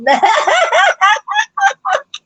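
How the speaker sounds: high, shrieking triumphant laugh; big mocking laugh. Real, not acted. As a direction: cackle at the critics. Gloating over angry commenters.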